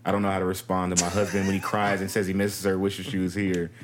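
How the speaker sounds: low, even letter-reading voice; reading aloud. Acted. Co-host reading a troubled wife's letter, read aloud.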